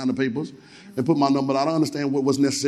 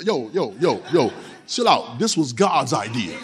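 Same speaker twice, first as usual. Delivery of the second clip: laid-back; 6 semitones lower, slower than usual. Shown as a demonstration. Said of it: "No, no".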